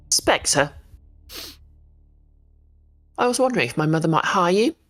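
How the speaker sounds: very shrill, demanding voice. Voicing a character who calls out to Spectre, in a shrill, demanding voice. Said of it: "in a very shrill, demanding voice".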